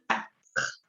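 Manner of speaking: "Quatre" starting with a plain K sound. Shown as a demonstration. Teacher showing French four, QU as K. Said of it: "La Q U se pronuncia como una K".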